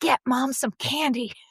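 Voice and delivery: put-on whisper. Retelling what a child said: imitating a whisper. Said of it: "Minerva whispers".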